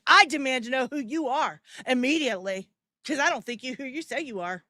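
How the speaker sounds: lightly voiced entitled stranger, mocking; mock demand. Streamer mimics the stranger demanding credentials, lightly mocking. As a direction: sneer out her demand, barely acting. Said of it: "be like".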